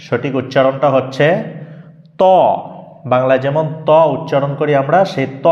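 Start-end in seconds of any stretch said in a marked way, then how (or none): 2.2-2.2 ত said thick, with the tongue tip; heavy Arabic letter. Shown as a demonstration. Teacher showing students the heavy ত. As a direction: make ত heavy and full. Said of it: "ত, একটু মোটা হবে".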